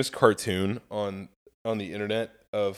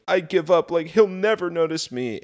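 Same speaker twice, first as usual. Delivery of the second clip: higher and louder, exasperated giving up; fed-up girl; 7 semitones higher, 3 dB louder than usual. Retold or imitated. Cartoon girl quits waiting for the guy, mock exasperated. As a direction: throw up your hands in mock exasperation. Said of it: "the girl gets off 'cause she's like".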